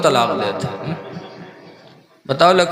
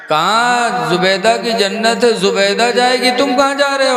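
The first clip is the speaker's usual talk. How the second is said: high, raised scolding voice; stern angel; 5 semitones higher than usual. Acted. Angel telling Harun this is the hereafter, high stern scolding. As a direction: lecture him sternly from above.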